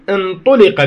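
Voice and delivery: انطلق slow with u on the ta; careful demo of انطلق; intuliqa demo. Shown as a demonstration. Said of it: "بضم الهمزة والطاء".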